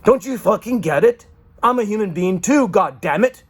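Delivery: loud high furious yelling; shouting in frustration; angry outburst. Real, not acted. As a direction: vent the fury at them.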